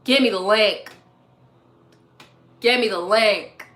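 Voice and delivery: put-on deadpan kid demand; little demanding boy voice. Host imitating viewers begging for the link, demanding kid voice. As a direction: imitate a blunt child demanding something. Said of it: "with that voice".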